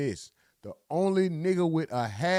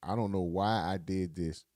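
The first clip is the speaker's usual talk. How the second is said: a lower, hammed-up sorry voice begging for sympathy; mock pitiful testimony; 9 semitones lower, 4 dB quieter than usual. Pretend defendant pleading to the jury, mock pitiful. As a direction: lightly play the scared, sorry defendant. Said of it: "I'm crying that same story".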